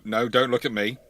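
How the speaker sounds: usual speaking voice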